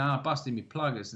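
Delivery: lightly put-on Australian accent; mild Australian accent imitation; Cockney-like Australian. Shown as a demonstration. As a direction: show an Aussie accent bordering on Cockney. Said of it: "it's almost a Cockney accent".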